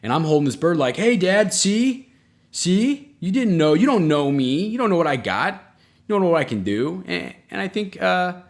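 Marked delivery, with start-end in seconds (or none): 1.0-7.0 high, loud triumphant boasting; gloating kid. Retold or imitated. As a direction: crow over proving dad wrong. Kid gloating to dad holding bird.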